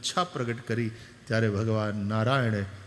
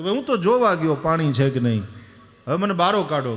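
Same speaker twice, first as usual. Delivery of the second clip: louder, urgent plea for help; loud pleading; 3 semitones higher, 6 dB louder than usual. Retold or imitated. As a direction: beg loudly to be pulled out. Grandfather pleads from well. (મોટેથી કાલાવાલા)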